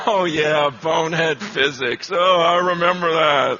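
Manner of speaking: low-pitched phony chuckling agreement; hammed-up fake recognition; fake knowing laughter. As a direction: pretend you are in on the joke. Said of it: "gonna just laugh with the rest of class".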